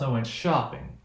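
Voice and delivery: "I went shopping" with the pitch dropping on "shopping"; "I went shopping" landing downward on "shopping"; falling intonation. Shown as a demonstration. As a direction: state "I went shopping" as finished fact, falling at the end. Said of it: "You can hear that it falls".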